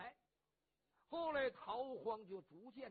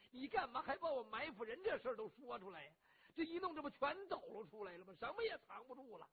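exasperated inner grumble; 3 semitones higher than usual. Acted. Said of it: "心想".

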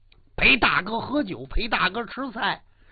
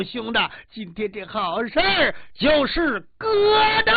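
gleeful shout; 3 semitones higher than usual. Acted. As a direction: shout it out, claiming the prize. Liang Bing claims the girl, delighted. (得意地大声喊)

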